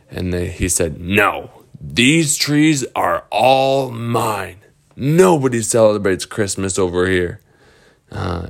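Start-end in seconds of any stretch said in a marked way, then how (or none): 1.0-7.4 slow, possessive troll refusal; guard your trees, slowly; lightly voiced troll.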